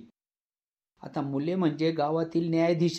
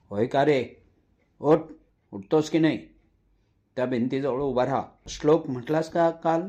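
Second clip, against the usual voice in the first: angry father. Acted. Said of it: "वडिलांचा राग व आवाज वाढत होता".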